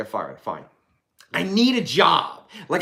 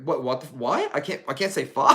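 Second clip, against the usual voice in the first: incredulous. Retold or imitated. Disbelief at being scolded.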